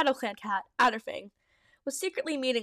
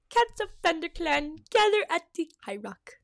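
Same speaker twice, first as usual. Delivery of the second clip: loud meow; 5 semitones higher than usual. Acted. Blue Star summoning the clan, mild loud call. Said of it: "Blue Star's loud meow".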